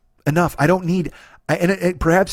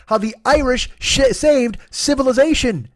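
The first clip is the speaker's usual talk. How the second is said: stumbling title; 9 semitones higher than usual. Shown as a demonstration. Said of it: "That's a hard thing to say".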